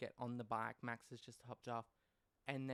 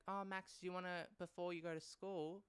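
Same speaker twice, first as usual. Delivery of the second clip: mock-cheery dad offering Max a ride; dad's voice; 5 semitones higher than usual. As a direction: put on the fake-nice father. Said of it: "he's like".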